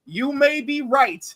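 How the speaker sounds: emphatic rallying speech, key words stretched; rallying declaration. Retold or imitated. Quoting the united commenters defending a movie, emphatic and rousing. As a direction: declare it proudly for the whole group.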